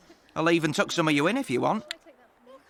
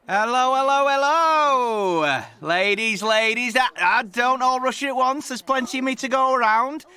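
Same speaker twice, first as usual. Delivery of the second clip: cheeky flirt; 4 semitones higher than usual. Acted. Cheeky charmer greeting ladies.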